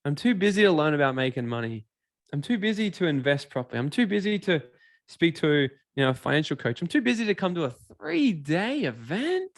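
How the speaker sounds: lightly voiced whiny excuse, slowed; a hint of a whiny busy person; mock excuse-maker. Mocking the person who's always too busy, light whine. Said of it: "they always just say".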